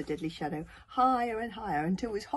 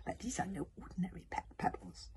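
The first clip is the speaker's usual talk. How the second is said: softly sly; crafty; 3 semitones higher, 6 dB quieter than usual. A narrator's reading. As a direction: confide a secret with cunning. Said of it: "said Kamikaze craftily".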